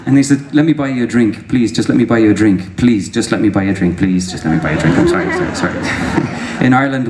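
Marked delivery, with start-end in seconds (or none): 0.5-6.3 pleading apology. Retold or imitated. Man begging to buy a drink, mock-apologetic pleading. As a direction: plead on repeat, pitch tumbling down to a mumbled sorry. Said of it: "he was really apologetic".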